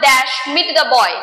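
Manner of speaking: very slow, spaced reading; slow question read-out. Shown as a demonstration. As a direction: read the gap sentence slowly aloud. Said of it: "চলো next বলছে".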